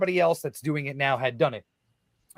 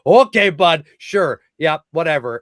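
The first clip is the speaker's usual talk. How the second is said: sarcastic brush-off; 9 dB louder than usual. Retold or imitated. Brushing off supposed prank call.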